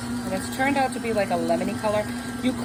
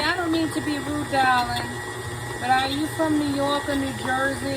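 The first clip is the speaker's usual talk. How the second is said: put-on young Southern waitress; 4 semitones higher than usual. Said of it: "She says to me".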